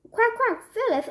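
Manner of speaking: duck quack. Acted. Duck voice on phone.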